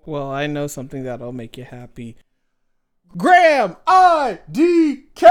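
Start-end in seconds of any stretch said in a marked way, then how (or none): 3.2-5.3 high, loud and slow, stretching every letter; drawn-out sing-song call. Real, not acted. A host teasingly calling out to her co-host, high and drawn out. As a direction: sing his name across the room.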